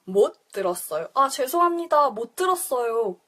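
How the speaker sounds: quick conversational speed; fast everyday Korean; fast natural. Shown as a demonstration. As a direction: rattle it off the way a native would. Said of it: "That's pretty fast".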